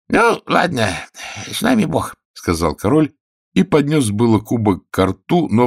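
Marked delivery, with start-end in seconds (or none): 0.1-2.1 whiny king. Acted. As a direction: play a petty tyrant poking at his healer. King voiced.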